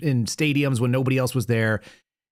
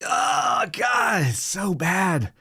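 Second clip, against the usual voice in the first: appalled; 8 semitones higher, much slower than usual. Real, not acted. Reacting to the singing clip.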